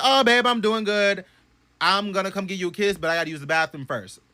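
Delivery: high, sweet voice to babe; sweet reply. Retold or imitated. Answering the fiance's voice, sweet reply. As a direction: coo at her fiance.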